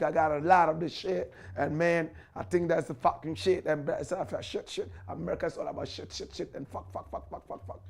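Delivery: lightly done American street talk, fading to a hiss; mock American slang. Ghanaian preacher mocking how Americans talk, lightly imitated American slang. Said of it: "You know how Americans speak".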